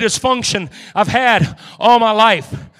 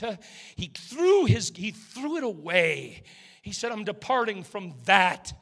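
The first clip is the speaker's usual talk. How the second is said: hushed preaching; 3 semitones lower, 9 dB quieter than usual. Acted. Preacher quietly speaking to the burdened, hushed preaching. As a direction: draw them in with a hushed voice.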